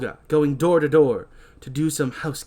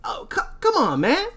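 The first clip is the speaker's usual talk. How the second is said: high pleading party dude; whiny bro plea; 13 semitones higher than usual. Acted. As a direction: beg like a stoned buddy. Titus begs Derek.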